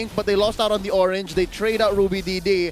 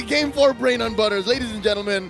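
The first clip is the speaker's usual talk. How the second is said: esports caster. Acted. Caster opening the game.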